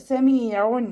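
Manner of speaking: tanween nun voiced clearly, no nasal hum. Shown as a demonstration. Teacher isolates സമീഉൻ to show the clear nun. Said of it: "വ്യക്തമായിട്ട് കേൾ".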